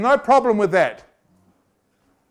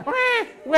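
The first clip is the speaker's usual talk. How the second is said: mock baby cry; 4 dB quieter than usual. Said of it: "the child goes".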